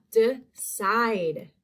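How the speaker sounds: "Decide" with the long I drawn out in the second half; long I sound. Shown as a demonstration. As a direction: lean on the second syllable of "Decide". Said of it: "that's in that second half".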